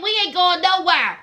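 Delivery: imitated refusal at a livelier pitch; insistent refusal. Same refusal retold more insistently.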